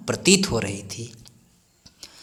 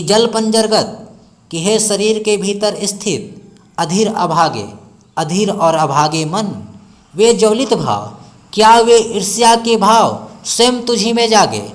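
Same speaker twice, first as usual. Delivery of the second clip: higher, much louder anguished outburst; impassioned self-address; 5 semitones higher, 4 dB louder than usual. Acted. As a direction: cry out at her own heart. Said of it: "अपने मन को संबोधित करते हुए कहती हैं".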